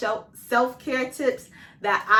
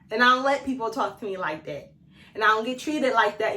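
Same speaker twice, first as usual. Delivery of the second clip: firm sassy put-down, louder; checking disrespect; 3 dB louder than usual. Retold or imitated. She tells a rude person off, firm and sassy. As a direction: set them straight, no nonsense. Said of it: "you gotta be like".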